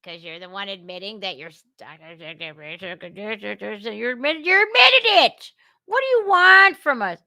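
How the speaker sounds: stammer, then burst into a mock yell; imitated exasperated reply rising to a shout; mock exasperation. Acts out everyone's exasperated reply.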